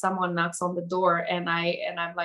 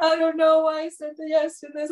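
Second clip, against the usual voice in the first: high-pitched imitation of tearful wailing; mock crying; 8 semitones higher, 4 dB louder than usual. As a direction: retell it as a hammed-up sob. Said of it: "like, crying in front".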